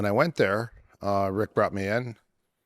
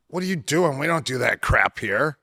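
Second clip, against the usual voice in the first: high-pitched disbelieving "what are you doing"; retold outraged shout; 6 semitones higher, 4 dB louder than usual. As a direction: mimic the shocked judo guys, pitch jumping up. Judo guys scold newcomer.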